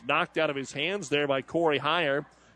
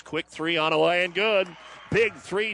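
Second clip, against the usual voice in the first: excited; 5 semitones higher than usual. Real, not acted. Made three-pointer, live call.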